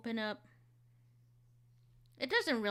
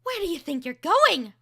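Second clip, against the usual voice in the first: stern challenge; 7 semitones higher, 10 dB louder than usual. Shown as a demonstration. Second take of reel.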